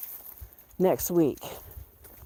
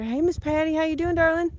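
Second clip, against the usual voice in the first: high sing-song greeting to a pet; cooing pet talk; 9 semitones higher than usual. Real, not acted. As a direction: coo sweetly like talking to a dog.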